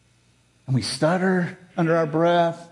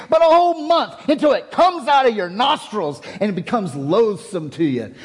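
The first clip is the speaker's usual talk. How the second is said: angry reading. Shown as a demonstration. Preacher reading God's words as angry John. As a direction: read it like an angry man losing patience. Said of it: "angry John would, would have said it that way".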